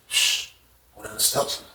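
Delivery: soft low shush; hushing. Retold or imitated. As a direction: keep it down so nobody hears. Hushing, keeping things quiet.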